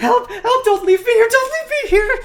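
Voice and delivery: terrified scream, shrieking, very high and very loud. Game master voicing a character who frantically shoots at Soleil: screaming plea. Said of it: "He's going to scream and say".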